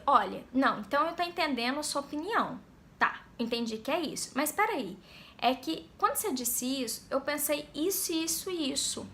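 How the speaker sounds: understanding, then gently probing; non-confrontational questioning. Shown as a demonstration. Coach showing how to question someone without a fight, understanding. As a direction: question to invite reflection, without challenge. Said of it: "mas não pra chamá-la pra briga".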